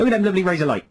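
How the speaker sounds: put-on playful West Country yokel accent; hammed-up West Country accent. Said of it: "Sort of in a West Country accent".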